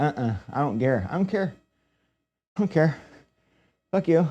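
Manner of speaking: uncaring, dismissive voice. Describing cats to a friend, voicing a mock-indifferent cat. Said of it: "cats just don't give a fuck".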